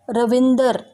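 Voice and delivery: रविंदर with the r cluster split, ra-vin-dar, Punjabi style; Punjabi pronunciation. Retold or imitated. Teacher imitating how Punjabi speakers say रविंदर. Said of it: "रविंद्र को वो रविंदर कहते हैं".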